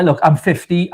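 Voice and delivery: ordinary talk, nothing marked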